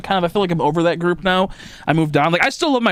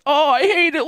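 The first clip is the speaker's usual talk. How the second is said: laughing mock whine; 10 semitones higher than usual. Mocking people whining about shots.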